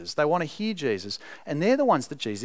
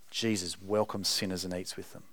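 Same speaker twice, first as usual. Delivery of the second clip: low, softer grumbling mutter; 7 semitones lower, 7 dB quieter than usual. Retold or imitated. Pharisees grumbling about Jesus among themselves, quiet mutter. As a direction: mutter it under your breath, disapproving. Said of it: "And they're muttering".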